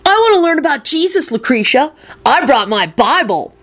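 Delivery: high, pleading whine; piteous wail. A narrator's reading. Kenny begging Lucretia's attention, piteous. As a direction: plead like a needy child. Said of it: "Kenny wailed piteously at Lucretia".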